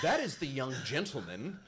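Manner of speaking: slow, loud, laughing sneer; old man pointing him out, snarling; mock snarl. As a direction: spit out the words with mock politeness.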